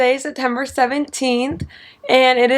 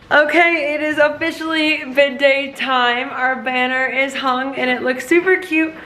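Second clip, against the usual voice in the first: bright, bubbly and excited; 2 semitones higher than usual. Real, not acted. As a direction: gush like it's finally bid day. Bid day finally arrives, excited.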